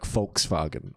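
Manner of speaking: Volkswagen slowly sounded out the German way; careful German Volkswagen, starting with an F; German pronunciation. Shown as a demonstration. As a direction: say Volkswagen as "Folks-vah-gen". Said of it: "didn't know that it was".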